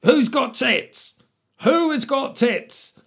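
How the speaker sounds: high, slow, drawn-out mock outrage; mock indignant quote. Comic quoting a politician, high and drawn out. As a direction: ham up the baffled question.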